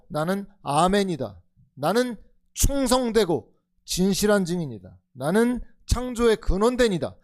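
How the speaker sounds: 1 solemn proclamation. Acted. Proclaiming Jesus's words.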